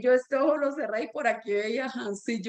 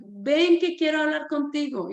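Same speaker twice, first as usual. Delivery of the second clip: raised, higher mock call; retold calling out; 4 semitones higher than usual. Teacher calls running boy over to talk, retold calling out. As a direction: imitate calling someone over from afar. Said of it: "le grité desde la mitad de la iglesia".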